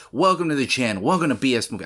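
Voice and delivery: bright YouTube host greeting; trying out a host welcome; host catchphrase. Shown as a demonstration. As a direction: announce it like a channel intro. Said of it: "a welcoming catchphrase to".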